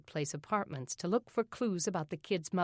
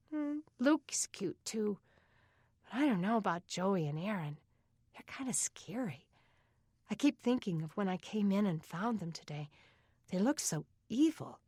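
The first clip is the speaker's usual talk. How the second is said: put-on higher, hushed girl's voice; young girl confiding; 3 semitones higher than usual. Beth telling Denny the older boys scare her, hushed girlish voice. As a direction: confide it like a kid in bed, pitched up.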